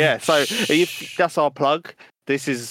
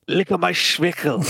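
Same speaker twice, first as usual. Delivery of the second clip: hammed-up German accent, pitched up; a silly mock-German line for a mic test; cheeky put-on German accent on request; 6 semitones higher than usual. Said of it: "I think try German".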